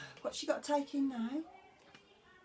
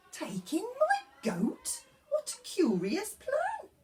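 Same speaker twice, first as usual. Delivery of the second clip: put-on high, pleading old lady voice; a fretful little old lady begging for help; 12 semitones higher than usual. Old lady's reply.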